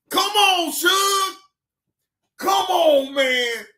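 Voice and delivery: loud, very high incredulous whine; high-pitched pleading. Real, not acted. Host begging Suge to come on, high-pitched pleading. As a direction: beg him to stop, voice way up high. Pleading while cracking up at clip.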